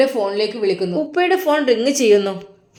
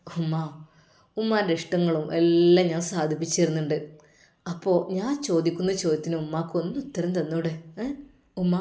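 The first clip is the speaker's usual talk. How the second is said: lower, softer hurt plea; hurt pleading; 6 semitones lower, 7 dB quieter than usual. Acted. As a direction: son pleading quietly with his mother. Son pleading with mother. (താഴ്ന്ന സ്വരത്തിൽ വേദനയോടെ അപേക്ഷ)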